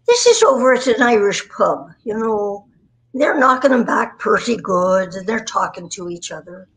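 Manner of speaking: light Irish storyteller's lilt; put-on Irish brogue; Irish accent. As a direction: set up a pub joke in an Irish accent. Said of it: "with an accent".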